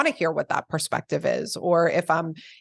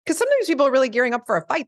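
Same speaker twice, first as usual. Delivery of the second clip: laughing; 8 semitones higher, much faster than usual. Real, not acted. Laughing while speaking.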